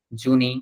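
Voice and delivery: June misread as "জুনি", ending in a clear i; naive misreading. Shown as a demonstration. Teacher shows learners a letter-by-letter guess, naive misreading of "জুনি". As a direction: say "জুনি", two syllables spelled out by the letters. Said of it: "জুনি উচ্চারণ করা যেত না".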